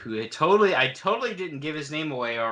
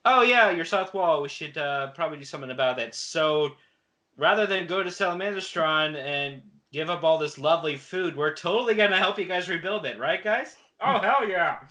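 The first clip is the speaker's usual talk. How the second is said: lightly acted major, building to a higher cheer; playful mock-heroic eagerness; eager volunteering; 5 semitones higher, 3 dB louder than usual. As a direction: start breezy, finish rallying the troops. Acting the major volunteering for lovely food.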